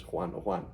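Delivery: "Juan" said as hwan; Spanish pronunciation. Shown as a demonstration. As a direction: open "Juan" with a breath h, not a j. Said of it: "In Spanish".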